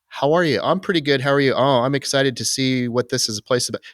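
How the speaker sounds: high, bright polite greetings; chatty small talk. Retold or imitated. Retelling how newcomers greeted each other at check-in, high and chatty. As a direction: play the upbeat new arrival.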